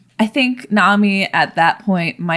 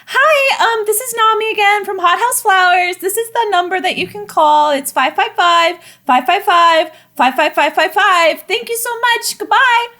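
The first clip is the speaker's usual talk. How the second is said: much higher, bright polite phone message; high anxious voice; 12 semitones higher, 4 dB louder than usual. Acted. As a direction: leave a chirpy, nervous voicemail. Second voicemail to customer.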